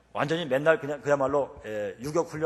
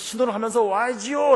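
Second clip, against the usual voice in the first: high, raised reproach on "와야지요"; intended shout; 8 semitones higher, 5 dB louder than usual. Retold or imitated. Cyclist meaning to correct the scooter rider, "와야지요" shouted properly. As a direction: call out "신호를 하면서 와야지요" clearly, scolding. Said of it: "소리를 지르려고 했는데요".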